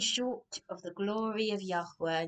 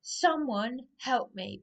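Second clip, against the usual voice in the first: crying out for help; 2 semitones higher, 3 dB louder, slower than usual. Retold or imitated. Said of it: "I am saying".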